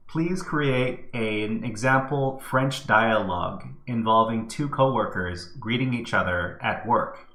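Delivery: measured, projected request; dictating a prompt. Real, not acted. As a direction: dictate it clearly to a machine.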